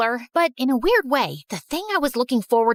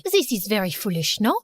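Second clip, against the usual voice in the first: put-on lower, rueful French-accented girl; French rival realizing; 5 semitones lower than usual. Genevieve to Erica stopped mid-race, low rueful French accent.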